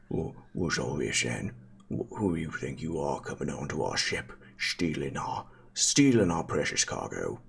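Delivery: a suspicious Cockney dwarf sailor; Cockney dwarf challenging intruders on his ship. Acted. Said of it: "it is a Cockney dwarf instead".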